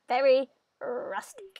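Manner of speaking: slow, drawn-out "Very rustic"; "Very rustic" drawn out slowly; mayor voice. Acted. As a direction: linger on "Very rustic" like a proud old mayor. Voicing Lewis, reread next.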